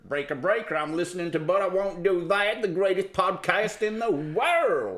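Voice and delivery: hammed-up trucker on the CB radio. CB radio role play.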